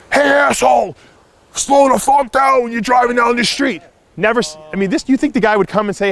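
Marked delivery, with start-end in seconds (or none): 0.1-3.8 high, louder, slowed mock yell at the driver; imitating a screaming neighbor. Neighbor yelling at him from his car, hammed-up high slow shout. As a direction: play the angry neighbor hollering across the street, pitched up and drawn out. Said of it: "and he's, like, screaming".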